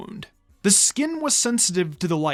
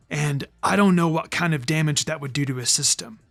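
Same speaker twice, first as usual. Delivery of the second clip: put-on lower, worried boy's voice; troubled young ninja; 3 semitones lower than usual. Naruto tells Hinata he can't fix the seal, troubled.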